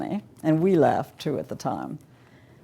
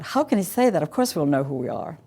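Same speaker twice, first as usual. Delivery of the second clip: retold indignant thought; indignant inner voice; 4 dB louder than usual. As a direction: scoff at it, offended. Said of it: "that upset me".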